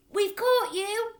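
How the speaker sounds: high, loud, slow hammed-up yell; mock yell. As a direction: pretend hold-up with a knife. Matilda yelling at intruders.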